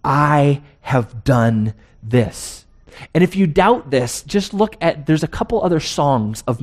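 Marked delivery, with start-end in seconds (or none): 0.0-2.6 proud boast. Retold or imitated. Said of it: "She's saying".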